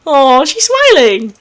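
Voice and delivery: slow cooing aww; melting over the smile. Real, not acted. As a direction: coo at the cute moment. Reader reacts to cute moment.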